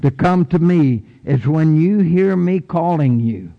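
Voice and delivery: voice of God. Acted. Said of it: "And God says".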